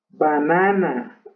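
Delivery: "banana" slowly with three Spanish ah vowels; slow Spanish-style "banana"; Spanish pronunciation. Shown as a demonstration. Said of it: "Eso es usando todo el español".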